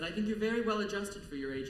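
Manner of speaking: quoting the principal. Retold or imitated. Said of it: "And he said".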